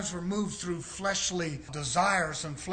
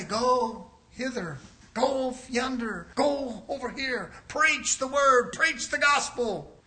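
slow, higher commands; commanding voice; 5 semitones higher, slower than usual. Acted. Preacher voicing the false voice that sends preachers out, slow and commanding. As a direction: call them out slow and grand. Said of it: "they hear something say".

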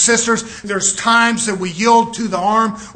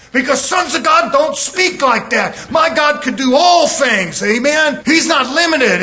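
full-force preaching. Acted. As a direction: preach it out, ringing and emphatic.

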